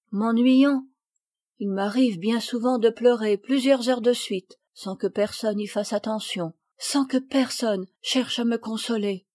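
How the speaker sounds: lightly voiced girl, pitched a little up; a hint of a hopeful, then forlorn child; unhappy girl confiding. Sophie tells her friends of being left alone, confiding.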